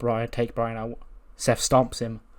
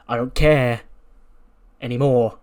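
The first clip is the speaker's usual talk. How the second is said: much louder, snapping out every word; angry shout; 9 dB louder than usual. Retold or imitated. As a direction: blow up at him, done holding back. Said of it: "and he's like".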